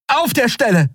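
high, urgent order; commanding. A narrator's reading. Endriel orders Keru to free Kai, commanding. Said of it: "befahl Endriel".

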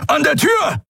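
very high shouted order; roaring. A narrator's reading. Keru roaring to Nelen about the door switches. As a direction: bellow the direction across the room. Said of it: "brüllte Keru".

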